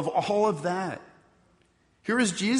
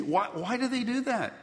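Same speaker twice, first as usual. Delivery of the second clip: laughing; 7 semitones higher than usual. Real, not acted. Laughing at his own joke.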